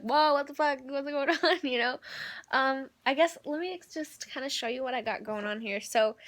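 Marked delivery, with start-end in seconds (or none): 0.0-1.6 shocked viewers. Retold or imitated. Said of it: "you guys are like".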